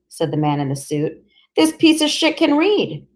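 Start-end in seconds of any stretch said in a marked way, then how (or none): 1.6-3.1 sneering contempt. Acted. Sneering policeman.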